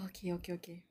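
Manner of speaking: whispered to self, bracing. Real, not acted. Steeling self to read on, a tense whisper. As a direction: hush it out as if about to open the door. Bracing before opening door.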